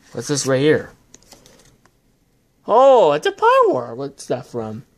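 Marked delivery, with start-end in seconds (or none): 2.7-4.0 sudden high, loud delight at the card; thrilled to spot it; excited. Real, not acted. Opening a pack on camera, excited.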